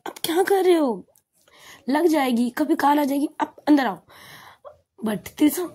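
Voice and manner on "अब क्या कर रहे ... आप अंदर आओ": higher-pitched retold telling-off; lightly acted anxious scolding; mock scolding. Hana tells her companion to get back inside the car, mock scolding. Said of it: "हना उसे डांट रही थी".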